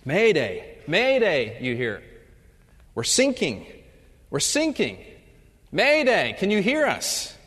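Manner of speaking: hammed-up sinking sailor crying mayday; mock distress call. Sailors radio a panicked distress call. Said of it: "hears his first distress call".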